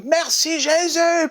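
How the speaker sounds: high, slow, drawn-out thanks to Jesus; joyful cry. Retold or imitated. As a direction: stretch it out high in grateful joy. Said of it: "il crie".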